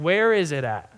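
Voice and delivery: "Where" punched, the rest falling away; stress on WHERE. Shown as a demonstration. Preacher explaining it's on placement, stressing "Where". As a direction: hit "Where" as the point of the question. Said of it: "I think the emphasis is on where".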